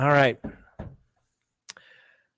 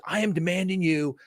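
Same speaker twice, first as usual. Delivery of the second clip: upset judge; 4 semitones higher than usual. Retold or imitated. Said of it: "He was so upset with me".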